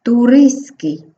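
"туриський" slowly with no T, turys-kyi; simplified pronunciation. Shown as a demonstration. Teacher modelling for pupils, "туриський" with the T dropped. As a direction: say "туриський" with S running straight into K. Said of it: "ми вимовляємо як сіки".

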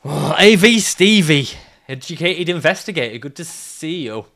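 loud, bright hello to a passing character; mock loud greeting. Greeting a game character he just spotted, loud and hammy. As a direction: boom out the welcome then let it drop.

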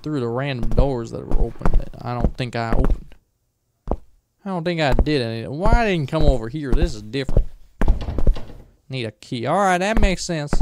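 loose, put-on redneck accent; badly faked country accent, rambling along. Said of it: "I also don't really know what this accent is".

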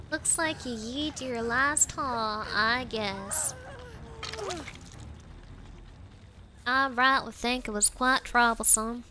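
put-on low, unhurried Southern-accented musing; attempted Southern accent. Gamer shrugging off a loss, attempted Southern accent. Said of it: "I will have a wonderful southern accent".

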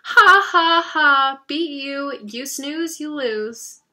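high, loud gloating shriek, easing toward the end; shrieking taunt. A narrator's reading. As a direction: crow over a beaten brother. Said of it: "and shrieking".

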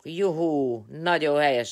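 high, loud cheering; joyful cheer. Real, not acted. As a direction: cheer for a friend. Cheering a friend's day off.

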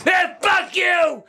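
real rage, curses yelled at the TV; furious rant. Real, not acted. Raging over the verdict.

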